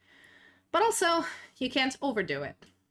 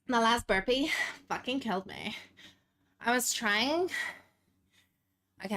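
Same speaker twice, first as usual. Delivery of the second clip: put-on a light Valley girl accent, tired and breathless after burpees. Streamer doing a Valley girl accent for viewers after burpees. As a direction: play a winded Valley girl, lightly voiced. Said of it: "that's the Valley girl. Hope you enjoy the accent".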